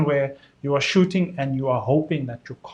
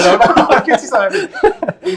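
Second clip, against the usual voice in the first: slow, laughing tease; 6 semitones higher, 4 dB louder than usual. Real, not acted. Teasing a colleague on stream.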